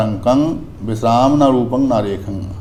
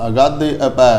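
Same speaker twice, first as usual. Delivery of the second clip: ਅਗਾਧੇ ਅਭੈ with a falling stop, then pause; pause after phrase. Shown as a demonstration. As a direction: end ਅਭੈ firmly and rest. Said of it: "ਇੱਥੇ ਵਿਸਰਾਮ ਵੀ ਲੱਗੇਗਾ". (ਅਗਾਧੇ ਅਭੈ ਤੋਂ ਬਾਅਦ ਵਿਸਰਾਮ)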